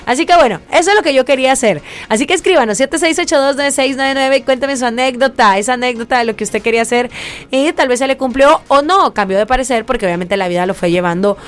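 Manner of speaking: cheerful radio announcer calling for messages; radio host read. Acted. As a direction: sell it to the listeners with energy. Radio host addressing listeners.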